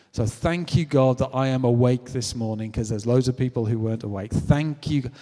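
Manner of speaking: lightly voiced welcoming preacher; a hint of a rousing Baptist welcome; gospel church leader. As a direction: open the service with emphatic gratitude. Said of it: "they started their service off like this".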